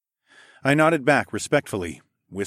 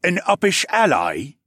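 pressing; 9 semitones higher, 6 dB louder than usual. Acted. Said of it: "Serik pressed".

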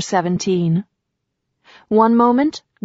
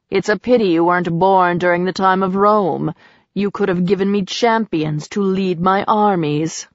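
a hint of a cold, lower god's voice; lightly voiced menacing god; 3 semitones lower than usual. Priapus appraises captive Grace.

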